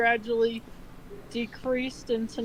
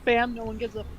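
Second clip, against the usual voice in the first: mock blunt retort; 2 semitones higher, 8 dB louder than usual. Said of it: "came in like".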